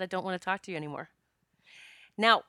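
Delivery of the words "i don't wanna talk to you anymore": softer, quick, polite refusal; a mild, nice-as-I-can brush-off; as nicely as possible. Retold or imitated. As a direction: let them down gently but firmly. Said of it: "I said it as nicely as I could".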